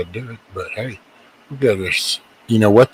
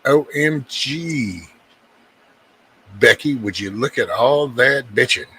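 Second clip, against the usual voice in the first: put-on a light, higher gossipy valley girl gasp; mock gossipy girl; 4 semitones higher than usual. Mocking the complainers to an imagined Becky, lightly gossipy. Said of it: "It's like".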